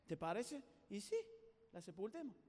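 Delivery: soft, hushed frog plotting; conspiración en voz baja. Acted. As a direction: agree on it furtively. Frogs plot to bury her. (en voz baja, conspirando)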